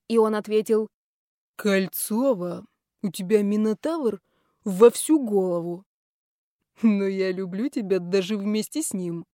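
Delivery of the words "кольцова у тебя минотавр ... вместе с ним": lightly voiced fond boss. Boss teases then confesses love.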